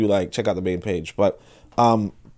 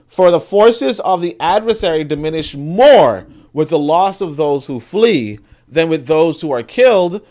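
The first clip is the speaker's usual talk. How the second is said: emphatic reading aloud. Real, not acted. Continues reading the rule aloud.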